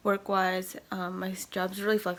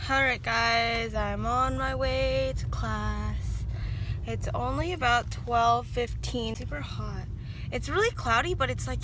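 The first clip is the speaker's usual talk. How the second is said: raised voice outdoors; louder, higher vlog voice; 4 semitones higher, 4 dB louder, slower than usual. Real, not acted. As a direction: talk up over the street noise. Walking outdoors to class.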